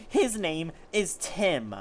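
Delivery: hammed-up angry yell. Leo yelling at Hitmonlee to defend Tim, slow and loud. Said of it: "he yelled".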